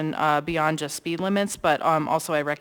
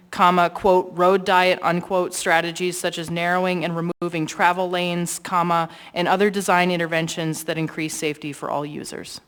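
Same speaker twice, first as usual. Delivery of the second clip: dictating. Shown as a demonstration. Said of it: "I'm gonna read out the text that I sent to the clerk".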